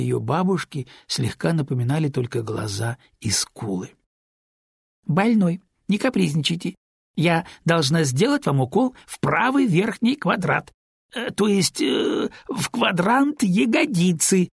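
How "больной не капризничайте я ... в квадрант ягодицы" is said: high, prim little-nurse voice, fighting back giggles; a child's pretend bossy nurse, choking on laughter; girl playing stern nurse. Girl playing nurse scolds her patient, high and stifling laughter. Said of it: "давясь от смеха".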